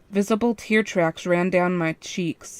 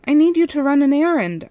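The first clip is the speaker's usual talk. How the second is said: higher, louder called-out voice; raised voice to the guard; shouting through a door; 8 semitones higher, 6 dB louder than usual. A narrator's reading. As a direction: call through the door to be heard. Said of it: "I shouted through the door".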